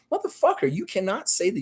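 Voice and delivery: sudden high, loud curse; furious at a viewer's patriotic comment, yelling; angry outburst. Real, not acted. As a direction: explode at the viewer. Angry outburst at a chat message.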